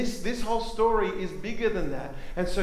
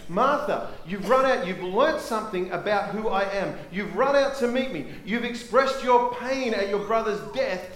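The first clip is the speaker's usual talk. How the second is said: raised, insistent address; challenging; 5 semitones higher than usual. Acted. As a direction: confront her emphatically in a higher voice. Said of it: "turns around and challenges her".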